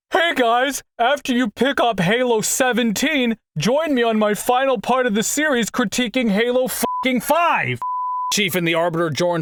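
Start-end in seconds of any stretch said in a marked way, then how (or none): 0.1-7.8 mock video intro. Mock future video intro, exasperated.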